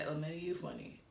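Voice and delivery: mock it back at him. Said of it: "like the mocking tone".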